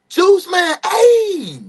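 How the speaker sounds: high, loud cracking hype shout; excited shout. Real, not acted. Hyping his friend Juice in chat, loud high shout.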